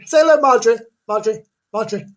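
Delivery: high coaxing. Pretend. Coaxing imaginary shy helper.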